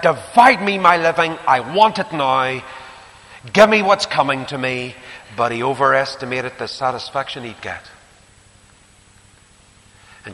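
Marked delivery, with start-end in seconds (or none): 0.0-4.9 loud, greedy insistence; demanding son. Acted. Prodigal son demands inheritance.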